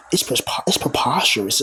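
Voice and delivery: breathy disgusted whisper. Real, not acted. Venting to viewers, suddenly whispering in disgust. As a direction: drop to a whisper on preposterous. Disgusted aside about life's hardships.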